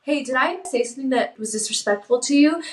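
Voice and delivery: gentle, humble "Hey, did I say something that was disrespectful to you?". Shown as a demonstration. Host shows wives the right tone, gentle and humble. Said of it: "with that humble tone".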